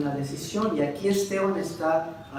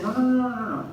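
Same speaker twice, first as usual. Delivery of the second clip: loud, higher burst of "no, no, no"; emphatic protest; 6 semitones higher, 4 dB louder than usual. Acted. Esteban shouting down the blasphemy charge, loud and emphatic. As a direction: cut off the accusers with a loud run of no.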